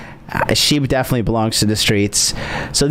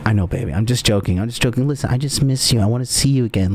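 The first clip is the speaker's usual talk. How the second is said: low sweet talk; 3 semitones lower, faster than usual. Pretend. Voicing himself sweet-talking.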